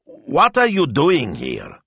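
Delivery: flustered call from the window; agitated. A narrator's reading. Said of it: "he called, agitated".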